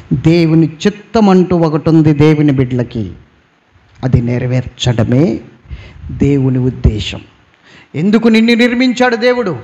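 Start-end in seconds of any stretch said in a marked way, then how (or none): none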